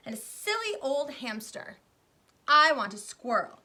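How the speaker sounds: high, loud bratty whining list; spoiled child tantrum. Acted. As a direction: rattle off pets like a brat. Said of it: "shouted Veruca".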